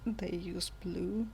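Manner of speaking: flat, slow deadpan. Acted. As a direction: say it dry and slow. Deadpan joke answer.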